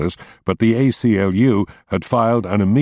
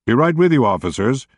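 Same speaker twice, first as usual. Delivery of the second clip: raised voice called out over the wind; hollering; 6 semitones higher than usual. A narrator's reading. Roscoe hollering up to the state troopers over the wind. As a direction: holler it over gale force winds. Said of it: "he hollered into the gale".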